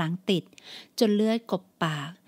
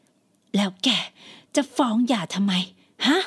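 demanding mother; slower than usual. Acted.

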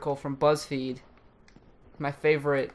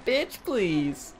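quieter sassy bitch please; softer sassy bitch please; 3 semitones higher, 4 dB quieter than usual. Pretend. Host repeating the face, softer sass. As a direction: drop it with a sneer, softer.

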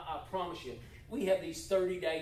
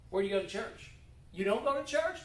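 surprised question; 5 semitones higher, faster than usual. Shown as a demonstration. Acted invite, surprised reply.

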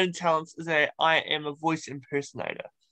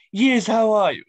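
high, louder cartoon baby greeting; imitating a cartoon infant, pitched up; Stewie; 5 semitones higher, 7 dB louder than usual. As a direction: answer in a put-on cartoon baby voice. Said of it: "I did Stewie".

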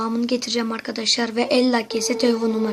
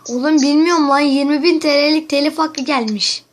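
yüksek sesle telaşlı oyunculuk; korkmuş gibi yap, sesini yükselt; panik numarası; 4 semitones higher than usual. Acted. Telefon şakası, panik numarası. (arkadaşına kanalı silindi diye panikle sesleniyor)

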